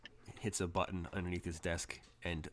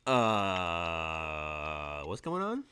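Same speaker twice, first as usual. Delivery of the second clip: nervous innocence; 3 semitones lower, much slower than usual. Acted. Woman looking around the room, nervously puzzled. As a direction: play lightly puzzled, pitch jumping up at the end.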